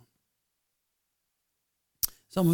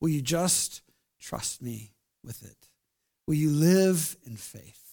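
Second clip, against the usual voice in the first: gentle voice of God; 3 semitones lower, 4 dB quieter, slower than usual. Retold or imitated. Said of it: "God's saying".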